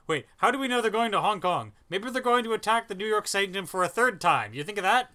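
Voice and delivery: mock the plot's logic; sarcastic. Real, not acted. Sarcastic rant at the film.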